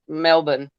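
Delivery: "Melbourne" with a swallowed second syllable, Mel-bn; Aussie-style Melbourne. Retold or imitated. Admiring how the others say the city, swallowed "Melbourne". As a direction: say "Melbourne" with a short, unstressed ending. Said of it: "I love how you guys say".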